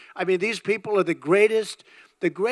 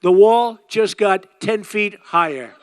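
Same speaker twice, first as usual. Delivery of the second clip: emphatic punchline; 7 dB louder, slower than usual. Acted. Punchline retort to Calderon.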